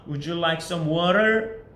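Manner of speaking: very slow with a rising "water"; practice drill question. Shown as a demonstration. Teacher leads a practice drill, asking very slowly. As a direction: stretch "would you like some water" for the class to repeat. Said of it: "연습을 한번 해봐야겠죠".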